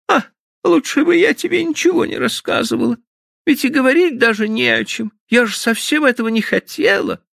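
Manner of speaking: put-on high girlish voice, near tears; tearful young woman. Stephanie, suddenly crying, pleads with Frank in a high voice. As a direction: plead in a high, wounded girl's voice.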